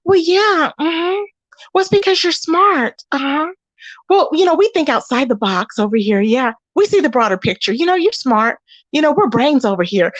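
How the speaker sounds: lightly voiced fake-sweet agreement; a hint of a syrupy flatterer; mock sweet fake agreeing voice. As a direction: imitate her sugary yes-woman act. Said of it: "She used to be in character very well".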